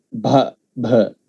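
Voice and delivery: "ba, ba" with an H puff after each b; aspirated B. Shown as a demonstration. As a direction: say "ba, ba" as bha, bha. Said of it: "add a little bit of H to it".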